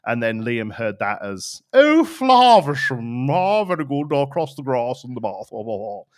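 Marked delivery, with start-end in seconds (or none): 1.7-6.0 hammed-up Scottish accent, high loud start fading away; mock Scottish burst with long "ah" vowels, trailing off; Scottish twinge. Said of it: "with a slight Scottish twinge".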